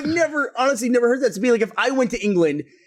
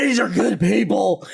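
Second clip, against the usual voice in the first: put-on Rick's odd accent; slower than usual. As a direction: ham up the TV accent with a shout. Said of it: "It's what he did".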